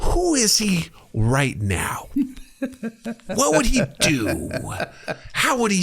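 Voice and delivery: slow, whispered question; whispered musing. Retold or imitated. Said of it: "I'm trying to be like".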